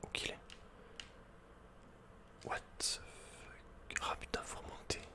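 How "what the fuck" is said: ordinary delivery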